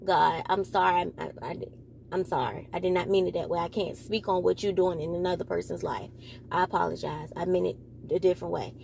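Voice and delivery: soft, low, hushed apology to God; quiet prayer of apology. Real, not acted. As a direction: murmur sorry to God, almost to yourself.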